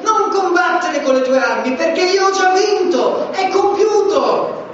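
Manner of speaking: Gesù che grida vittoria, voce alta e cantilenata; Jesus crying out. Acted. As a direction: proclaim victory as Jesus, full force. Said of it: "il grido di Gesù che ti dice".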